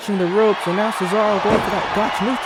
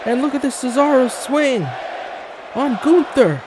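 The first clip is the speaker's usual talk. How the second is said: excited call; 4 semitones higher than usual. Real, not acted. Commentator hyping the crowd over a big swing, excited call.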